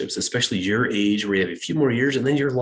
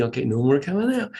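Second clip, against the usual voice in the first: gentle singsong "no more coming out"; coaxing the kid, still patient; kind voice; 3 semitones higher, faster than usual. Retold or imitated. Parent gently telling a child no more coming out, kind. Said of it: "we always start out with a kind voice".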